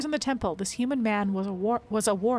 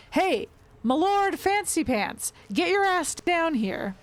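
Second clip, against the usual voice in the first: high, slow rough yell up the stairs; shouting; 9 semitones higher, 3 dB louder, slower than usual. Acted. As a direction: bellow it at the house. Woman kicks in the door, calls out.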